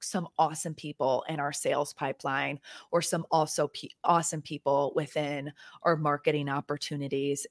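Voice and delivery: commercial voice. Shown as a demonstration. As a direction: read it like a sponsor spot. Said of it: "in my commercial voice is".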